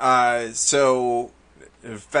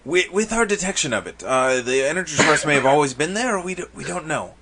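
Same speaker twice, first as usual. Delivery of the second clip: lightly voiced, higher-pitched interjection; hesitant clarifying official; 5 semitones higher, faster than usual. Official corrects visitors about the energy source, lightly voiced hesitant clarification. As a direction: jump in to qualify, stumbling a little.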